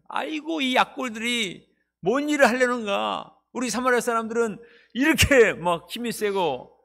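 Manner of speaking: lightly voiced mocking enemy; mocking Sanballat. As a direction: play the scornful enemy, a touch of contempt. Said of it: "이렇게 말했습니다".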